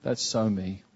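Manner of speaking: understated tearful admission; tearful confession. Retold or imitated. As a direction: quietly admit it, close to crying. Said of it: "I said".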